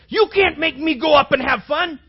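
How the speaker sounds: high, loud mock protest; loud, high imitated student whine; whiny student. Voicing angry students' complaint.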